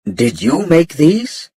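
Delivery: put-on slow, light Chinese accent. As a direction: ask in a Chinese-accented English. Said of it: "he asked in English with a Chinese accent".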